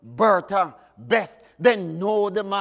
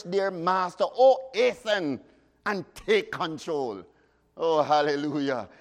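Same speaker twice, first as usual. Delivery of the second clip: hymn recitation. Acted. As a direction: draw out each plea like a prayer. Continues reciting hymn verses.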